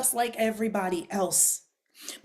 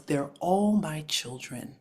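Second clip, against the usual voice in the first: calm divine answer; 4 semitones lower, slower than usual. Retold or imitated. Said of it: "God's response back to me was".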